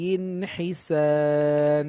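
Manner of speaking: হিসান stretched very slowly, three alif long; held long alif. Shown as a demonstration. Teacher shows the three-alif stretch, very slow. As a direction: draw out the sa in হিসান. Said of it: "এভাবে পড়তে হবে".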